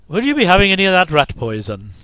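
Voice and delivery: a light Irish accent, imitating the dubbed shopkeeper; mock Irish accent. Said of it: "That strangely overdubbed Irish accent".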